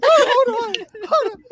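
high squeaky laughing "hold on"; stifled giggles. Real, not acted. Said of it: "I'm trying to keep a straight face".

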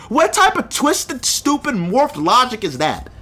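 real exasperated outrage. Real, not acted. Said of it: "right now I'm gonna be emotional".

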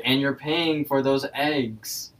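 slow, drawn-out mock call; calling from afar. Benson walking off, tells Rigby to pay, drawn-out call. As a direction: lightly imitate calling back from a distance. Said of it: "Benson from the distance says".

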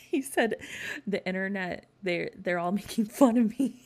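mocking quote through laughter; laughing retelling. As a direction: crack up while quoting his complaint.

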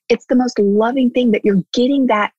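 hushed unvoiced whisper. Real, not acted. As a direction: breathe it like a secret. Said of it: "whispered line".

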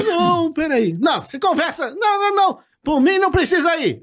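imitating a scared man begging; panicked colleague. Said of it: "a voz dele". (imitação aguda de pânico e súplica)

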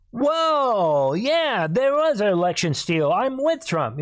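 high, far-off put-on voice of an old senator; Mitch McConnell. Mocking a party leader who suddenly backs Trump, in a high put-on voice. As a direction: squeak it out like a party elder suddenly switching sides. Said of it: "We might even have Mitch McConnell have".

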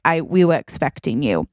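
gently voiced welcoming butler; a touch of tender butler reassurance; loving butler. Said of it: "so loving with the way he says it".

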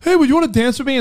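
high, slow simple voice; slow-sounding guy voice. Retold or imitated. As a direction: sound slow but sly. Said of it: "he sounds slow".

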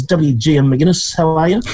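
formal full-initials greeting; scorebook talk. Retold or imitated. Mate imitating how his friend greets on the phone. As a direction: greet him like reading a scorebook. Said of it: "He talks in scorebook talk".

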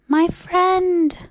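high, loud little voice; high-pitched small-person voice; tiny speck voice. A narrator's reading. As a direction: call up high from a tiny creature. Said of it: "came the voice".

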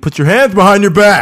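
loud cop barking an order; barking police commands. Pretend. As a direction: bark it like an arresting cop. Mock arrest in weed bust.

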